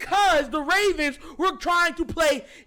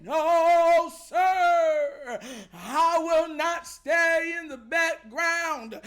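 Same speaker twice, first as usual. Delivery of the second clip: defiant quote; slower than usual. Retold or imitated. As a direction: read it like a battle cry. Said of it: "He said".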